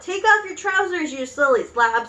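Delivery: high opening, dropping on the insult; shouted. Acted. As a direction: shout a scolding order. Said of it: "someone else shouted".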